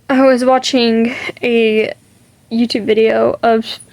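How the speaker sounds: burping the words. Real, not acted. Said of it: "sorry, I'm burping a lot".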